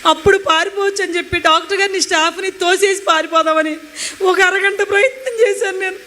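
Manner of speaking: tearful, half laughing through it; crying while recounting. Real, not acted. Reliving the painful stitching ordeal. (నిజంగా ఏడుస్తూ, గొంతు వణుకుతూ)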